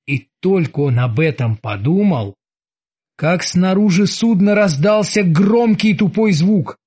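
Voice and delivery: plain reading voice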